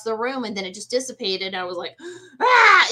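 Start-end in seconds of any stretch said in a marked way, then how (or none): 2.0-2.9 sudden high loud yelp of fright; startled cry. Retold or imitated. Telling a host about the shadow, a high startled yelp. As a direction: jolt out a shocked cry.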